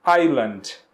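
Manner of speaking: "Island." repeated as EYE-land, no S sound; silent S. Shown as a demonstration. Teacher repeats the model word for students, S silent. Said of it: "a gente não pronuncia o S".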